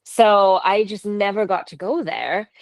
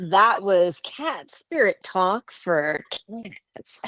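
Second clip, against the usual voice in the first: late night radio host; 4 dB quieter, slower than usual. Acted. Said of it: "sounded like late night radio host".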